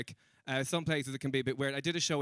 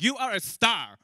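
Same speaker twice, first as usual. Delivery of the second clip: high, loud mock-fan voice; gushing admiration; 9 semitones higher, 7 dB louder than usual. Man approaching him in the hotel, loudly gushing. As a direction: proclaim it with star-struck emphasis.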